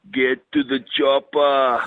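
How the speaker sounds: Arnie line. Retold or imitated. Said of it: "and he just goes".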